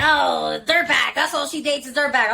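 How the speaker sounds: laughing mock gossip; mock them through a laugh; laughing while mimicking gossipers; mocking laughter. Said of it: "They're like".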